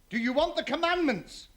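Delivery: booming voice from heaven. Acted. God offering the commandments.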